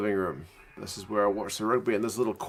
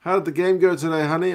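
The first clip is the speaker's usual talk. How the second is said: mock partner voice; 7 semitones higher, 6 dB louder than usual. Partner asking the kicker after game.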